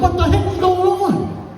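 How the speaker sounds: very high, drawn-out exclamation; mock bewildered outcry. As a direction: exaggerate total confusion in a stretched high voice. Acts bewilderment in Spanish class.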